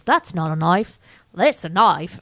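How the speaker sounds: put-on a light Australian accent on "That's not a knife. That's a knife.". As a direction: quote Crocodile Dundee's line in a mild Australian accent. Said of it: "Good accent".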